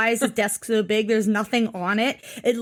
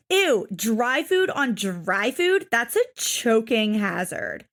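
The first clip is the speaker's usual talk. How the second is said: slow, drawn-out mock disgust; stretched, exaggerated ew of complaint; imitating Amber; slower than usual. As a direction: lightly mimic a grossed-out daughter. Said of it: "Amber's just like".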